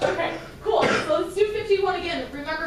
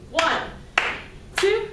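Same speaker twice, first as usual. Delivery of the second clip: counting in loud and higher; 4 semitones higher, 4 dB louder, much slower than usual. Real, not acted. Teacher counts the band in loudly for the forte. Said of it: "let's give it a forte".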